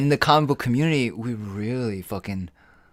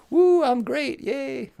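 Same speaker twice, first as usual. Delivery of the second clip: high, loud fake cheer; hammed-up woo-hoo excitement; mock cheer; 4 dB louder, much slower than usual. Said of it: "I'm not like".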